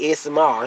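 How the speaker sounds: "S M R" run together as one quick word; run-together letters. Shown as a demonstration. Mom owning her mistake, "S M R" run together. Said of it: "you be saying it wrong".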